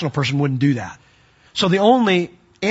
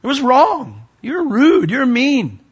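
stern confrontation; 9 semitones higher, slower than usual. Retold or imitated. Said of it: "I go to people all the time and I say".

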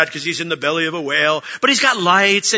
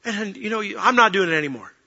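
higher, louder fed-up complaint; exasperated grumbling; 4 semitones higher, 5 dB louder than usual. Retold or imitated. Preacher retelling his own complaints to God, fed-up and louder. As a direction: vent like you're done with it all. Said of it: "I've thought".

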